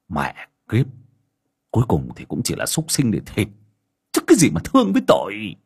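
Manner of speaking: lightly voiced husband cutting his wife down; husband snapping at his pleading wife, mildly angry. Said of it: "thằng Tú đã quay lại vặc vợ".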